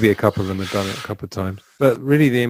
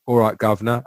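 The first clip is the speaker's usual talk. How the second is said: a quick Cockney "all right, governor"; lightly put-on Cockney greeting; Cockney accent, lightly imitated; old Cockney. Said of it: "He's got this kind of old Cockney".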